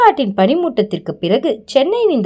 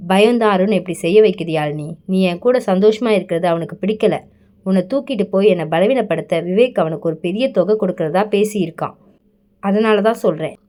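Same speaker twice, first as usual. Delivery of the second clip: lower, firm commanding voice; authoritative; 4 semitones lower than usual. Acted. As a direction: lay down the law, low and steady. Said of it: "என்றான் அவன் அதிகாரத்துடன்". (அதிகாரமான தாழ்ந்த குரல்)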